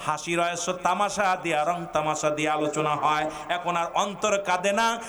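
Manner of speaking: normal talking voice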